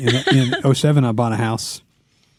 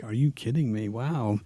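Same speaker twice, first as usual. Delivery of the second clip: muttered disbelief; 9 dB quieter, slower than usual. Retold or imitated. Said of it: "you're just like".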